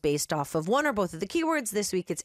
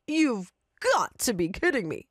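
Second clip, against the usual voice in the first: grumbling. Acted. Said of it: "the man grumbled".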